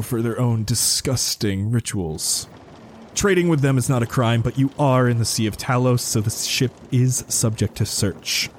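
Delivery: a suspicious naval commander interrogating the captain; stern commodore. Acted. DM voices the commodore.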